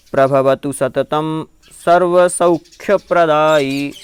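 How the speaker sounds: measured chant of a Jain prayer verse; recited Sanskrit verse. Shown as a demonstration. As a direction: recite each word slowly and clearly.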